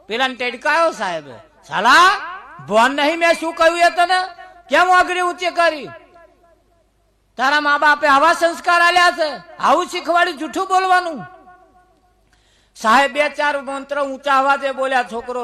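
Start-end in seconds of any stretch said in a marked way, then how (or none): 1.7-11.3 sharp scolding teacher, raised and fast. Retold or imitated. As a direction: tell the boy off hard. Teacher scolding boy in story. (ગુસ્સે થયેલા સાહેબનો ઠપકો)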